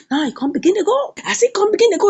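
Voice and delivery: plain reading voice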